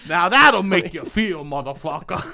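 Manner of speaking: slap the stranger's chest and yell it; dad shouting. Retold or imitated. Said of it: "He goes".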